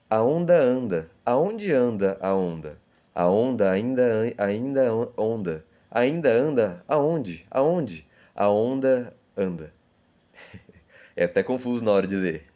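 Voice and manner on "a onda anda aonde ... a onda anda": slow rhythmic poem reading. Shown as a demonstration. Teacher reading a poem to the class, slow and rhythmic. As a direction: read the poem aloud, playing with the sounds. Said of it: "repara só na repetição de som".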